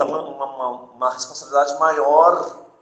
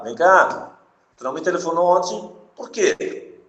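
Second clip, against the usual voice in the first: pressing demand; 4 semitones higher than usual. Shown as a demonstration. Teacher showing a pressing question to students, insistent and demanding. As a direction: press them like you demand an answer. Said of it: "tu tá colocando muito mais intensidade naquela tua pergunta".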